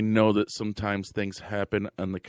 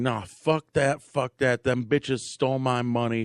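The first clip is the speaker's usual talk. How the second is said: angry yelling; 4 semitones higher, 3 dB louder than usual. Retold or imitated.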